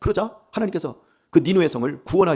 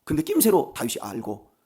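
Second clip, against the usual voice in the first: ordinary talk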